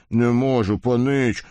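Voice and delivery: hoarse, strained refusal. A narrator's reading. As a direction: rasp it out, voice gone. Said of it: "просипел кузнец".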